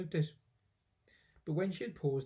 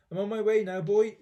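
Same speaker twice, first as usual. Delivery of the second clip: louder, higher call from above; 5 semitones higher, 7 dB louder than usual. A narrator's reading. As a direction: call down to the boy below. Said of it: "she called down to George".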